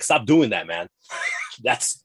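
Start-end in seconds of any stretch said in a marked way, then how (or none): 0.0-0.9 loud fed-up mock yell; frustrated fan shouting at the manager; exasperated shout. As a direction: yell it like he's right in front of you. Venting at the annoying manager.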